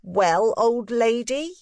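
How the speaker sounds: put-on high, good-humoured boyish voice; an indulgent teasing boy; boy Miles. A narrator's reading. Boy teasing his governess, high and good-humoured.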